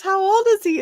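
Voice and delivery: high, loud acted-out question; retold astonished question. Old lady asking about the dog, high astonished voice. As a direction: squeal the question, imitating her. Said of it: "She goes".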